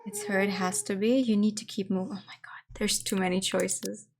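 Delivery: scared horror game streamer. Real, not acted. Nervous streamer whispering in horror game.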